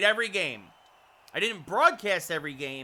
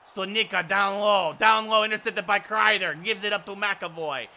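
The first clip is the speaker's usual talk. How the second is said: hockey call with stretched face-off words; play-by-play; 3 semitones higher, 6 dB louder, slower than usual. Real, not acted. Announcer calls Studnicka's face-off and rush, lively play-by-play. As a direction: announce each touch of the puck briskly.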